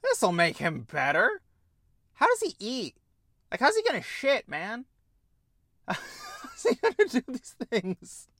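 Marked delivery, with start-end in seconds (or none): 2.1-8.3 higher, amused disbelief with a laugh; laughing question. Real, not acted. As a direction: ask it while cracking up.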